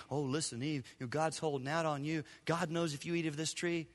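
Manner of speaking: soft, sly serpent's coaxing; a hint of a wheedling serpent; Satan tempting Eve. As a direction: whisper the temptation softly. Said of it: "Satan in the garden saying to Eve".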